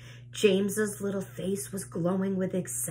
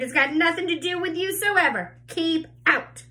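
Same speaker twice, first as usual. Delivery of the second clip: scornful scolding; 9 semitones higher, 4 dB louder than usual. A narrator's reading. Aunt scolding James.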